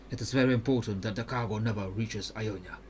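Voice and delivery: put-on understated seriousness in an Ionian accent; suddenly serious. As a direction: stress the mission's importance in measured accent. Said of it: "he says with a suddenly serious tone".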